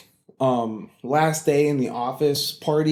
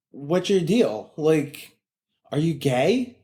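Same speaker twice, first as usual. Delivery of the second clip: colleague prying; much slower than usual. Retold or imitated. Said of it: "And she just goes".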